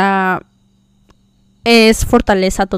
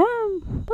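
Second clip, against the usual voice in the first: retold shout; 11 semitones higher, 13 dB quieter than usual. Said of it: "Y dije".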